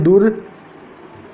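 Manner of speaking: दुर्दशा drawn out very slowly, र sounded before द; slow pronunciation demo. Shown as a demonstration. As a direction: stretch दुर्दशा syllable by syllable, rising at the end. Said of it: "तो क्या बोलते हैं?". (दुर्दशा को बहुत धीरे, र को पहले बोलते हुए)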